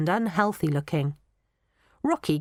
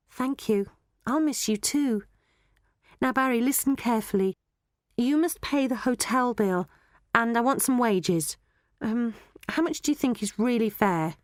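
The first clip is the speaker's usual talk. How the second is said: lightly voiced Molly, a little higher; Molly the girl; 5 semitones higher than usual. Molly asking Barry for wages, light higher girl's voice. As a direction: lightly play a girl striking a deal.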